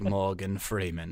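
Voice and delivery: slow, deep-voiced self-introduction. Newborn star introduces himself as he pops out, deep voice. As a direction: say it low and drawn out. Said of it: "that was a deep voice".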